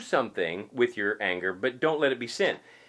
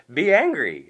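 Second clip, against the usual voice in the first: be angry belted out loud; loud command; 3 semitones higher, 9 dB louder than usual. Acted. Preacher urging the congregation, belting it loud. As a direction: hit it hard and loud.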